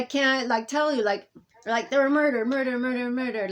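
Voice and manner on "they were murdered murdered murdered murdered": loud voices. Retold or imitated. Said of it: "Like, it's loud".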